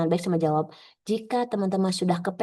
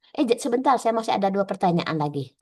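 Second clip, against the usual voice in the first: acted interrupting examiner. Examiner with two more questions stops the trainee, acted interruption. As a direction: cut in lightly as the examiner.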